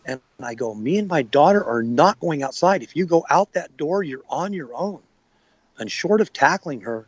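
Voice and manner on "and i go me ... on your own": higher, urgent retold order to stop; firm command. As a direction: plead and command her to stay. Ordering girlfriend away from door.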